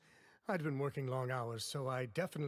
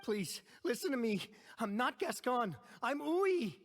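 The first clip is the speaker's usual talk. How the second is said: desperate yelling; 9 semitones higher than usual. Acted. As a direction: insist on who you are. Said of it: "yelling isn't going to achieve anything".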